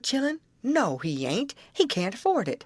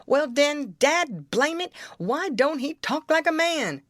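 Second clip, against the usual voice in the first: Jim springs his winning point with exasperation; triumphant outburst; 7 semitones higher than usual. Acted. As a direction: Jim clinching the argument against Huck, exasperated. Jim wins the argument triumphantly.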